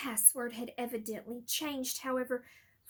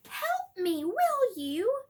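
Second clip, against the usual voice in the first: anxious, raised plea for help; urgent plea; 9 semitones higher, 6 dB louder, slower than usual. Acted. Crumb to Harry, a nervous raised plea. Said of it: "Looking extremely apprehensive".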